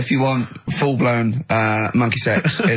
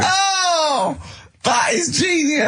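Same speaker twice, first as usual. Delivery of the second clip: laughing; much slower than usual. Real, not acted. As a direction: shout it out while still laughing. Host cracking up at story.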